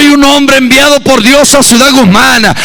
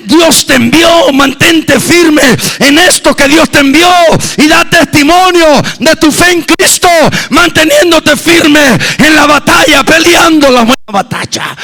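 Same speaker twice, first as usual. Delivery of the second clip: fervent exhortation; 3 semitones higher than usual. Acted. Preacher urges the brother to stand firm, fervently. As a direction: lift the brother up with it.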